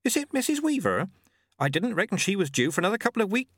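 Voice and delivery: high, fast panic; startled young midwife rushing her words; panicky girl. A narrator's reading. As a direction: blurt it out in a rush of alarm. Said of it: "looked suddenly panic-stricken".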